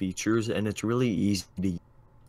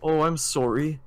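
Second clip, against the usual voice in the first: higher mock-Minnesotan apology; Minnesotan accent; 4 semitones higher, 4 dB louder than usual. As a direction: put on a Minnesota "sorry". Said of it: "I hear you starting to do it".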